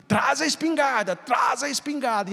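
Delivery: high desperate call for the gun; mother shouting. Retold or imitated. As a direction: yell for the husband, frantic. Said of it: "gritando, chamando o marido". (mãe gritando desesperada pelo marido)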